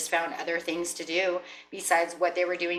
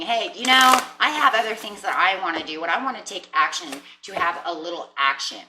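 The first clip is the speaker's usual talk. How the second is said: eager declaration; 7 dB louder than usual. Acted. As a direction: announce it boldly to the partner.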